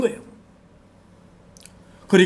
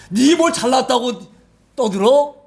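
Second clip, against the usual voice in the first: slow, raised rebuke; scolding thief; 4 semitones higher, slower than usual. Retold or imitated. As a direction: put him in his place. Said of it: "꾸짖나는 그 말이에요".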